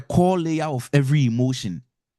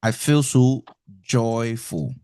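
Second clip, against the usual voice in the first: joyful; 2 semitones lower, slower than usual. Acted. Someone voicing their joy, slow and gushing. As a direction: gush with happiness, stretching it out. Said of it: "Obi say".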